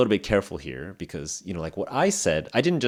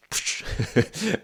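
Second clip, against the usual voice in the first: swatting psh; 5 semitones higher than usual. Shown as a demonstration. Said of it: "killing a fish".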